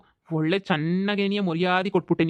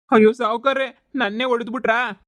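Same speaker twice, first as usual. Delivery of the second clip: louder, startled cry of pain; pained outcry; 3 semitones higher, 4 dB louder than usual. Acted. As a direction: yelp at being hit by the master. Servant cries out when struck.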